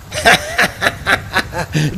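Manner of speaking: mad cackle; horrible cackling laugh. A narrator's reading. Grimlin mocks Conrad's bewilderment with a horrible cackle. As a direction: cackle like a madman. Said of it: "burst into a horrible cackling laugh".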